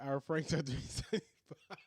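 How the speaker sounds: words broken by laughter; laughing while reading the price; laughing through it. Real, not acted. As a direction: try to say it through giggles. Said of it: "If I can stop laughing".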